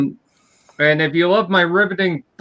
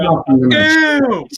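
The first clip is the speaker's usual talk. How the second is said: disgusted; 11 semitones higher, 6 dB louder than usual. Real, not acted. Groaning at shameless self-promotion.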